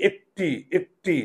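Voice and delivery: একটি with a close "e", "ek-ti"; একটি split as "ek... ti" with a narrow e; closed-jaw e. Shown as a demonstration. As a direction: keep the jaw nearly shut on the first vowel of একটি. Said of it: "চোয়াল খোলে না".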